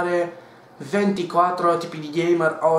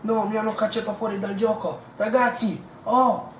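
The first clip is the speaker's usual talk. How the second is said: high panicked call; 6 semitones higher than usual. Acted. Laggy gamer calls.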